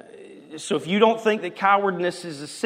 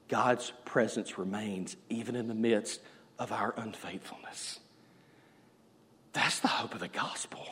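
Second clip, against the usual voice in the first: softer, whispered gospel truth; hushed whisper; 6 semitones lower, 11 dB quieter than usual. Real, not acted. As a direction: whisper it like a sacred secret. Hushed climax of sermon.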